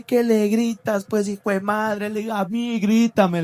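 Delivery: confronting his father, slow and firm; desafío al padre. Retold or imitated. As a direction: stand up to him, daring him to yell at you. Hijo enfrenta al padre que grita. (desafiando al padre, lento y firme)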